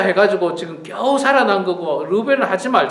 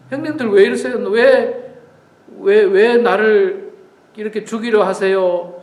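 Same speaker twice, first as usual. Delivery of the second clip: pleading younger brother. Acted. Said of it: "아마 이렇게 애걸했을 거예요".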